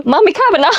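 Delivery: normal talking voice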